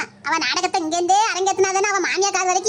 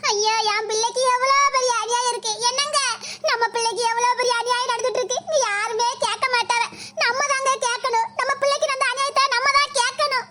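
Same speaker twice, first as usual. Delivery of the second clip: fake lament. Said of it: "நடிப்பு நடிக்காம".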